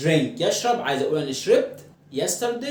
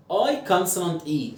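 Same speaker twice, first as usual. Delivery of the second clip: I consonant E said very slowly; slow spelling pattern; much slower than usual. Shown as a demonstration. Teacher spells the smile pattern slowly for students.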